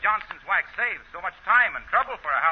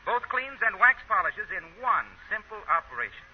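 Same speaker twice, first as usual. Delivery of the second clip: upbeat announcer selling wax; old-time radio commercial voice; ad read. Acted. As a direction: sell it like a radio pitchman.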